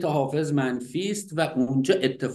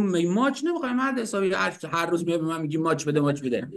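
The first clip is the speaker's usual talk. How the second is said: scolding wife; faster than usual. Retold or imitated. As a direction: nag him quickly with a laugh. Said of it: "گفت".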